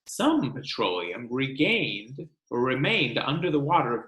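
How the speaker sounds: lively read-aloud, bigger on the lists; storybook reading for a classroom; reading to children. Acted. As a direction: read the book to the class with energy. Teacher reads book to class.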